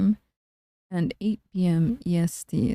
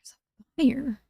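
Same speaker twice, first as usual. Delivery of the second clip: whispering; 5 semitones higher, slower than usual. Real, not acted. ASMR stream, remark.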